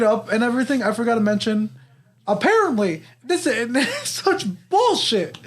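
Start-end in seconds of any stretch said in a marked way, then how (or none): 3.2-5.4 laughing. Real, not acted. Laughing exasperation.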